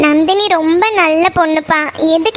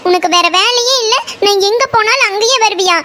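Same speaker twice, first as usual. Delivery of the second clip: raised pitch, indignant telling-off; scolding; 5 semitones higher than usual. Acted. Meena scolding the boy who keeps following her, high indignant scolding. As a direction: tear into him for following her.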